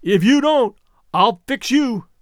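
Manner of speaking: lightly voiced rough fisherman's threat; threatening. A narrator's reading. Big Alec threatening the patrolmen, menacing shout.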